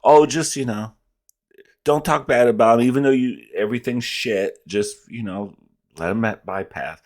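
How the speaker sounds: mocking impression. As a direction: parody him as a clueless apologist. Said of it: "he sounds stupid talking about".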